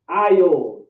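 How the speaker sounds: ISLE said loud and drawn out with a falling tune; pronunciation demo. Shown as a demonstration. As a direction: demonstrate the word "isle" emphatically. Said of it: "This is how you say it".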